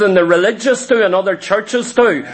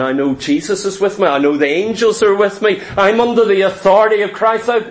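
confident declaration. Retold or imitated. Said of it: "And I went".

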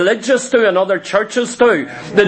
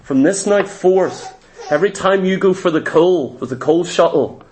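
stern self-talk; 5 semitones lower than usual. Retold or imitated. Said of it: "And I said".

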